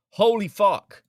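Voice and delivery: exasperated outburst. Real, not acted. Exasperated at the comments.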